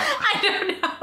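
robot voice. Acted. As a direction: keep up the robot voice. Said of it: "Why do you sound like a robot?".

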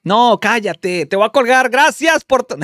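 loud, playful scolding; mock outrage. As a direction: cut off the caller in feigned indignation. Mock quarrel with teasing caller.

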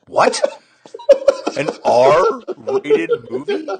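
high, loud, drawn-out incredulous question with laughter; mock shock. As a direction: play up scandalized disbelief, stretching the words. Acted shock at sleepover film request.

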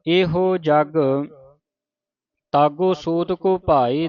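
slow, measured recitation with drawn-out vowels; scripture recitation. Shown as a demonstration. Teacher reciting a shabad for the congregation, slow measured recitation. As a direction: recite the sacred verse slowly, stretching line endings.

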